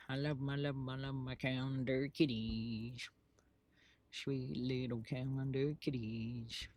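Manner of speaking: slow, soft cooing. Real, not acted. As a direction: coo at the calendar kitties like pets. Cooing over calendar cats.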